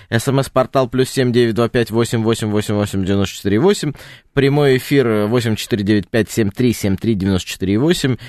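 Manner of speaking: reading out phone numbers clearly; dictating. Shown as a demonstration. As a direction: dictate the digits one by one. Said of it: "продиктую наши координаты". (диктует номер телефона)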